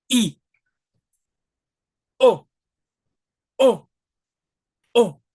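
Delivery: each vowel punched short from a tensed stomach; crisp gut vowels. Shown as a demonstration. Teacher drilling short Spanish vowels from the gut. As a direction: bark each vowel out and cut it off. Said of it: "when you say, "Hey".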